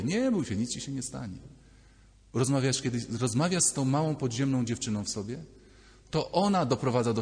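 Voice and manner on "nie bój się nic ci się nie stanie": lightly acted comforting of a child; reassuring. Adult self comforts the scared child, soothing.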